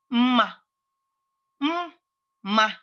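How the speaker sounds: "mma" split into a hummed m, then "ma"; first M separated. Shown as a demonstration. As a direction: sound the first m of "Mma" on its own before "ma". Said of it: "The first M is m".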